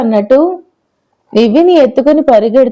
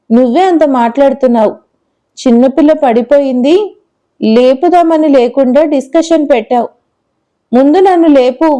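lightly voiced little girl; 2 semitones higher than usual. Girl demands to be lifted.

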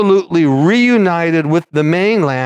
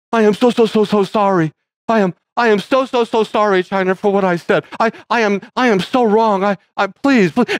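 pleading, mock-weepy, overdone sorry; mock tearful apology; 3 semitones higher than usual. Mocking the actor's teary apology to China. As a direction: whimper out a fake apology. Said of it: "he's almost in tears".

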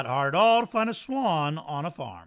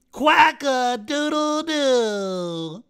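much higher, louder, slow stretched duck crow; loud proud crow; 9 semitones higher, 9 dB louder, much slower than usual. Acted. Don crowing from the rooftop, loud and proud. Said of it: "loudly and proudly, Don crowed".

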